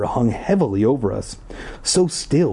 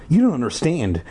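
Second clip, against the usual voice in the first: urgent, pitched-up plea; shrill cry; 4 semitones higher than usual. Acted. Ashley pleading with Paul, shrill and urgent. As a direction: insist desperately, voice climbing. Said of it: "Ashley cried shrilly".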